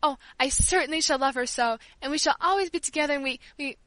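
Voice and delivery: tearful. Acted. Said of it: "as I burst into tears".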